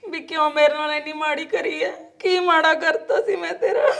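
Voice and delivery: crying to God. Acted. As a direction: sob out the question to God. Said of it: "ਰੋਣ ਨਾਲ ਕੀ ਹੋ ਜਾਊਗਾ ਦੱਸ". (ਰੋਂਦੀ ਹੋਈ ਰੱਬ ਨੂੰ ਸਵਾਲ)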